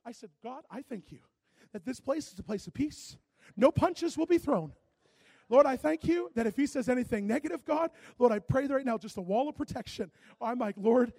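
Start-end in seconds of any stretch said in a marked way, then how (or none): 0.4-10.1 loud, fervent prayer, preaching at full force. Retold or imitated. Retold loud prayer before tense meeting. 10.8-11.1 fervent cry to God. Retold or imitated. Retold loud prayer before tense meeting.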